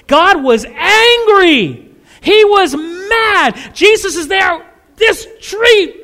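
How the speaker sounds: loud, high, slow booming; booming emphasis. Real, not acted. Preacher to congregation, booming loud and high about God's anger. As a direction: hammer home God's anger.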